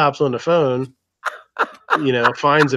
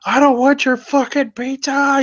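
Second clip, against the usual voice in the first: high, loud mock scream; imitated scream; 12 semitones higher, 3 dB louder than usual. Night Strike yelling at the pranksters, mock scream. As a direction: yell it through the door in fury. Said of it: "He's, like, screaming".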